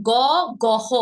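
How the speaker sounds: গহ said as two syllables, with a separate হ; wrong letter name. Shown as a demonstration. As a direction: mispronounce it as "গহ". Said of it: "গহ বলতে কি কোনো কিছু আছে". (ভুল উচ্চারণে গহ, আলাদা হ দিয়ে)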